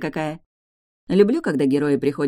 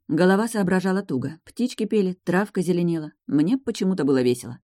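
ordinary delivery

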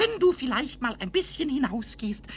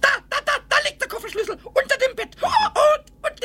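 gleeful laugh; 9 semitones higher, 5 dB louder than usual. Acted. Pumuckl gleefully finds hidden things.

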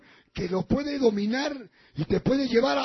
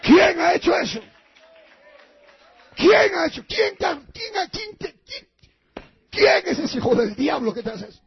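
higher, louder angry yelling; furious shout; 7 semitones higher, 5 dB louder than usual. Retold or imitated. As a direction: bellow in outrage at the culprit. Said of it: "me volví King Kong".

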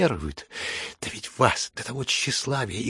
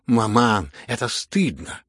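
loud exclamation; 5 dB louder, slower than usual. Acted. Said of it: "громко вскричала Аглая".

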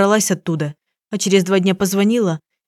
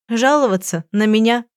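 usual speaking voice

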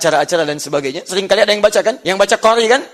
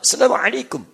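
imitated Arab accent, higher pitched greeting; 4 semitones higher than usual. Shown as a demonstration. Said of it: "kayak orang Arab". (logat Arab tiruan)

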